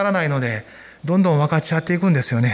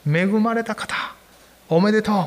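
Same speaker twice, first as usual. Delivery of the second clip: angel's greeting; 3 semitones higher than usual. Retold or imitated. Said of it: "と言ったんですね".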